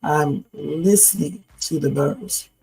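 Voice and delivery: slow, hushed reflective musing; dreamy musing. Acted.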